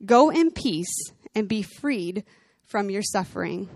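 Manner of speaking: steady measured reading aloud; scripture reading. Acted. Preacher reading Mark to the congregation, measured. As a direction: read the passage plainly but gravely.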